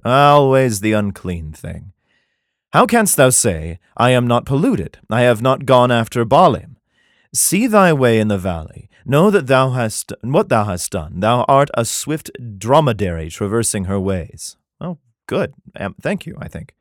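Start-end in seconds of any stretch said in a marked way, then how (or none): 2.7-14.6 measured, solemn Bible reading; scripture reading. Acted. Comedian reads Jeremiah to his audience, solemn scripture reading. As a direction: read it like King James scripture.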